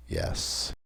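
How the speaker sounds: voiceless, whispered answer; soundless reply. A narrator's reading. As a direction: breathe it softly without any voice. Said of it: "but without sound".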